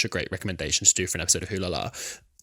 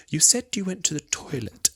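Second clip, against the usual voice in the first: interrogating Agatha; 8 semitones higher than usual. Retold or imitated. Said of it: "Agatha is interrogating the unicorn".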